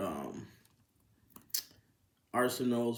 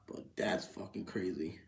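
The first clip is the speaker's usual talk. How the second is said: muttered aside; 6 semitones lower, 8 dB quieter than usual. Real, not acted. Aside after checking number.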